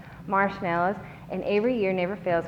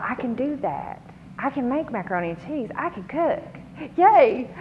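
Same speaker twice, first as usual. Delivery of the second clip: rising higher and brighter, ending in a loud cheer; talking herself up to cook, then a loud cheer; excited inner voice; 6 semitones higher, 4 dB louder than usual. Retold or imitated. To herself about cooking for the student, eager and rising to a loud yay. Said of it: "And I thought".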